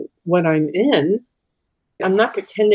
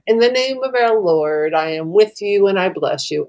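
sarcastic blessing. Retold or imitated. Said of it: "not as sarcastic as I just made it out to sound".

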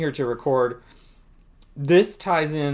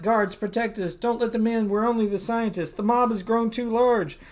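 high panicked scientist; 8 semitones higher than usual. Acted.

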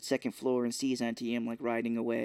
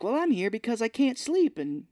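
higher-pitched mock Dorothy; voiced Dorothy retort; 4 semitones higher than usual. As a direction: play Dorothy's put-upon explanation, pitched up. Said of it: "Dorothy's like".

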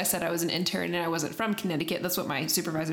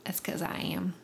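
whisper; 6 dB quieter than usual. Real, not acted. Whispered joke about being Southern.

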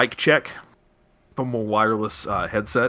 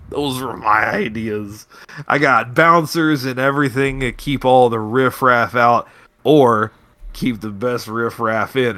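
put-on slurred, giggly party girl; boozy bragging, drawn out; drunk slurring; 4 dB louder than usual. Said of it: "She's slurring a little bit".

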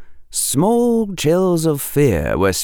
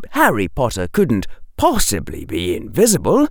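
usual speaking voice

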